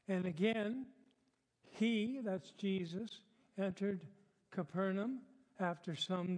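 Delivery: measured Bible reading in phrases; deliberate pulpit reading; scripture reading. Acted. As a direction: read the passage aloud to a congregation, pausing between phrases. Reads the passage aloud.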